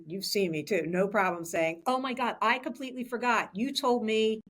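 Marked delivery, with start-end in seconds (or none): 1.9-4.4 higher, quick burst of realizing you forgot; apologetic exclamation. Retold or imitated. Leader to staff in the hallway, apologetic exclamation. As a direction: blurt it out as a sudden remembering.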